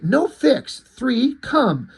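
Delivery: lightly voiced commanding dog; word by word, like a dog giving orders; dog character. Voicing the dog in comic.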